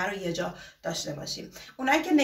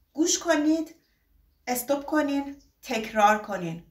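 گوش کنید، استوب کنین، تکرار کنین said as three separate stressed steps; teacher instruction steps; 2 semitones higher than usual. Shown as a demonstration. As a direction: lay out each step with a pause.

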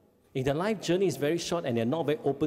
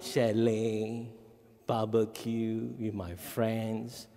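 put-on dreamy teen; 3 semitones lower, much slower than usual. Teen's wish quoted, slow.

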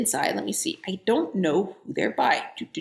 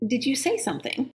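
polite inquiry; 4 semitones higher, 3 dB quieter than usual. Acted. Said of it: "she inquired politely".

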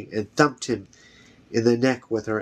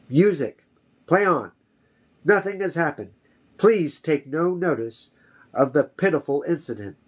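higher, raised calling voice; calling out to the room; 5 semitones higher than usual. Acted. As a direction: call out to restore calm. Chamberlain calls out to calm ballroom.

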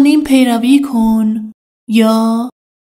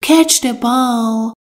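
slow, each word laid out clearly; slow model sentence; much slower than usual. Shown as a demonstration. Teacher to Persian learners, slow and clear. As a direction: spell it out slowly for learners. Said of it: "teacher models an English sentence".

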